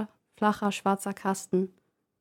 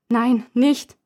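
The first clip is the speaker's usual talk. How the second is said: desperate cry; 3 semitones higher, 6 dB louder than usual. Acted. Puppe ruft verzweifelt.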